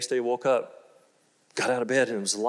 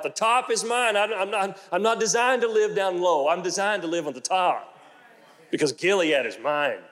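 bold confession; 5 semitones higher than usual. Shown as a demonstration. Preacher showing the congregation how to confess, bold. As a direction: proclaim it with rising confidence. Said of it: "start confessing out of your mouth".

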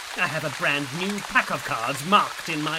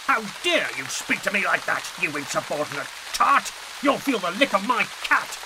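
villain's rage; 4 semitones higher than usual. Acted. Villain threatens Ruth with whip.

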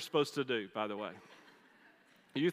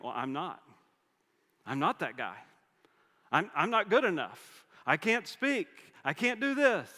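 Moses's excuses; 2 semitones higher, 3 dB louder than usual. Retold or imitated. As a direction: build from mumbled doubt to a whiny protest. Moses making excuses, voiced.

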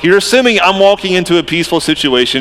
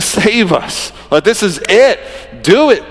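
crowd urging; 4 semitones higher than usual. Retold or imitated. Crowd voiced pleading, urging.

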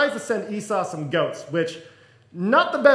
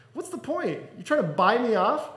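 mildly affronted; 2 semitones higher than usual. Acted. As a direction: lightly act out a brother refusing a bribe. Esau questions the gift sent him.

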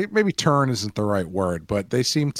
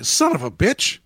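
high, loud dramatic outburst; hammed-up shock at being tricked, pitched up; mock exclamation; 7 semitones higher, 5 dB louder than usual. Retold characters' exclamation at ruse.

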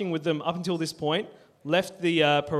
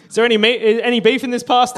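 mock eager marcher, higher and louder; mock marcher's question; 5 semitones higher, 5 dB louder, faster than usual. Marcher asking local trader about beef in pasty, mock hopeful. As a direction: pipe up loudly as a hopeful marcher. Acting out a marcher receiving pasties.

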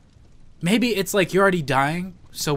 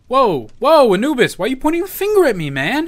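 panicked; 10 semitones higher, 6 dB louder than usual. Acted.

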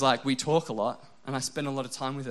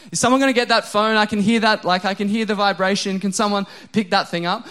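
louder, higher, fast exasperated demand; loud exasperated plea about the phone; exasperated outburst; 4 semitones higher, 7 dB louder than usual. Retold or imitated. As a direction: call out at the ringing phone, fed up. Annoyed at unanswered phone.

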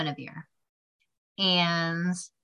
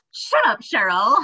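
playful scolding; 2 semitones higher, 4 dB louder than usual. Retold or imitated. Grandma playfully smacking her granddaughter for the joke, mock scolding. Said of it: "playfully smacked me and was like".

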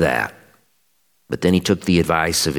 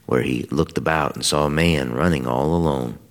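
measured, solemn lector reading of a Bible passage; scripture reading; 3 semitones lower than usual. Acted. Lector reading scripture to the congregation at Mass, solemn and measured. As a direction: read it out steadily to the congregation. Reads the scripture lesson aloud.

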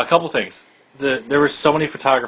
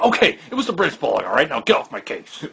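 Vince. Retold or imitated. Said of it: "Vince was so sure of himself".

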